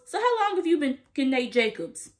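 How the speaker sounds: loud, pointed callout; Rue's accusation. Retold or imitated. Vlogger acting Rue calling out Cassie at the table, loud. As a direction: drop the bomb loudly.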